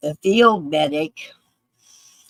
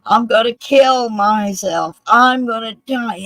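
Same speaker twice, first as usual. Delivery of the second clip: retold screaming; 3 semitones higher, 4 dB louder than usual. Veteran crying out within earshot of cops, retold screaming. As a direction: imitate a desperate man's cry, held partly back. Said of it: "he starts screaming".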